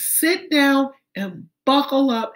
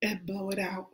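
breathy exhale; 3 semitones lower, 12 dB quieter, faster than usual. Shown as a demonstration. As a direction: breathe the words out gently. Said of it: "one more deep breath".

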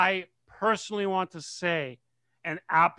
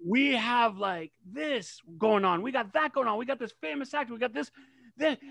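high, bubbly excitement; excited; 6 semitones higher than usual. Retold or imitated. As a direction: gush about the news. Mock excited retelling.

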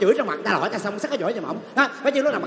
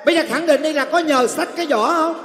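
pressing demand; 7 semitones higher, 4 dB louder, slower than usual. Acted. Servant pressing master to answer.

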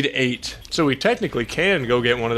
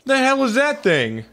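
startled; 10 semitones higher than usual. Real, not acted. Startled by new enemy.

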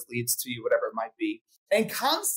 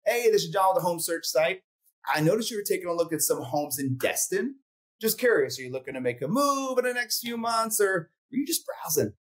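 relaxed sales call; 3 semitones higher than usual. Shown as a demonstration. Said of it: "So once again".

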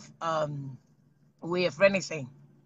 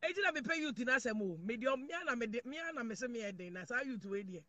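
quiet aside; 4 semitones lower, 16 dB quieter, faster than usual. Acted. Drops voice low.

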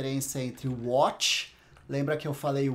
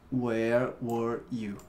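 drawn-out, low, careful English; slow model pronunciation; 6 semitones lower, much slower than usual. Shown as a demonstration. Teacher models the question for a student, slow and careful. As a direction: say it slowly for a learner to copy. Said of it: "Dá uma enrolada na língua".

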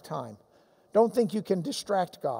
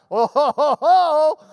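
booming laugh, rising and loud; 7 semitones higher, 9 dB louder than usual. Real, not acted. Preacher laughs loudly at the woman's dodge. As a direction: let a big belly laugh roll out.

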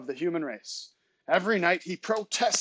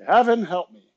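loud, higher-pitched mock plea; exasperated family cry; 4 semitones higher, 10 dB louder than usual. Imitating families driven mad by their kids, exasperated cry. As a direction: throw it out like a fed-up parent. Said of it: "hearing your families say".

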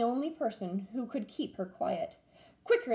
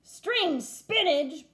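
higher, slow doubting echo; puzzled pirate; 7 semitones higher, 4 dB louder, much slower than usual. A narrator's reading. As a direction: repeat it suspiciously. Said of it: "Braidbeard said".

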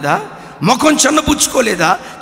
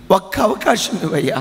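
pleading in tears; 5 semitones lower, 4 dB quieter than usual. Acted. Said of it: "ఏడుస్తూ అన్నాడట".

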